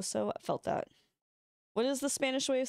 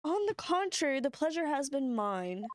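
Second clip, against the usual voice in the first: higher, slowing courtly reply; courteous character voice; 5 semitones higher than usual. Acted. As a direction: play a gracious reply, pitched up. Reading a character's courteous line.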